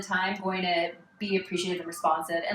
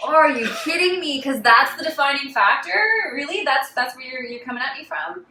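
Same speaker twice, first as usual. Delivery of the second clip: higher, louder mock disbelief; indignant retort; 6 semitones higher, 4 dB louder than usual. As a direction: throw it back incredulously, voice lifted. Retold indignant retort to official.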